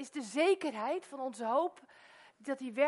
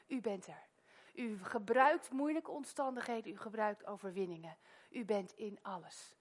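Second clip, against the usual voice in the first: prayer. Acted. Opening prayer.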